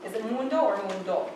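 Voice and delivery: mundo asked both ways, stress on mun then on do; two ways of saying mundo. Shown as a demonstration. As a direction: contrast mundo with mundo. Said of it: "How do you say the word".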